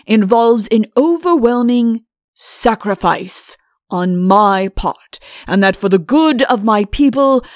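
loud, pompous royal dictation; self-important monarch issuing a proclamation; imperious king. Acted. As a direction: declaim grandly, stretching the weighty phrases.

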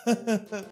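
villainess chuckle. Acted. Stalker laughs at his dismay.

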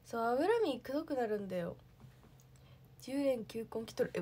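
ordinary talk

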